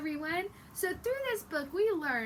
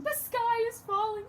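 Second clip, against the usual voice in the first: panicked chicken; 8 semitones higher, 4 dB louder than usual. Acted.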